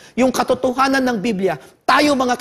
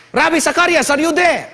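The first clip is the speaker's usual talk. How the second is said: soldier calling out; 6 semitones higher, 3 dB louder than usual. Retold or imitated. Soldier calling through the door.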